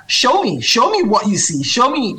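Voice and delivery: lightly voiced small child pleading to see; eager toddler. Toddler son interrupting mother's reading to see the book, lightly imitated eagerness.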